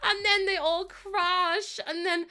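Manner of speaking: teary laughter. Real, not acted. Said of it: "I'm actually gonna cry".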